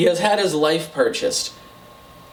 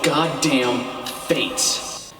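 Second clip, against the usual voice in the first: mock grand announcement; much slower than usual. Grand slow announcing of title.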